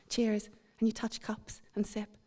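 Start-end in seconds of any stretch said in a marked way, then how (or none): 0.1-0.5 put-on English accent. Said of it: "you reply with your almost two syllables".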